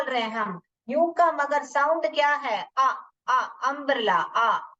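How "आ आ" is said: "आ" said as a long open vowel; vowel sound demo. Shown as a demonstration. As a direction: hold the आ like in आम. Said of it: "आ sound आता है". (आम वाला लंबा "आ")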